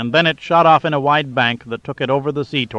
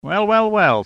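much higher, sing-song gloat; gloating delight; 9 semitones higher, slower than usual. A narrator's reading. Captor gloating over the captured boss, high sing-song. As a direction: savour catching the big man. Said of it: "said a happy Mancuso".

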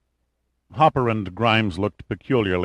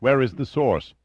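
urgent, insistent, leaning on "Where"; pressing; 5 semitones higher than usual. A narrator's reading. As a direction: press him for the answer. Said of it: "pressed Grimes".

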